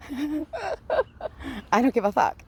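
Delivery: slow, giggling through the words; can't stop laughing while swearing. Real, not acted. Laughing at her own defiance as she vlogs.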